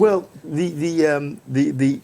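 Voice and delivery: halting, stumbling over the; stammer, searching for words. Real, not acted. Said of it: "Are you stammering?".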